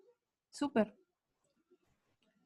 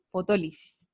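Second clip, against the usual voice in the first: Fotólisis with the stress on TÓ, falling after; lower-pitched Fotólisis, accent on the second O; 5 semitones lower than usual. Shown as a demonstration. Teacher repeating the word for pupils, Fotólisis stressed on TÓ. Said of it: "lleva acento en la segunda O".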